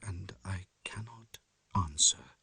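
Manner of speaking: breathy whisper of doubt; whispered dread. A narrator's reading. Lanyon admitting his disbelief, whispered. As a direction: let it fall to a whisper.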